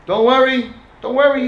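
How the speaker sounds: high, loud shout of encouragement; screaming. Retold or imitated. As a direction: yell it out to the crowd watching. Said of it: "he started screaming to them".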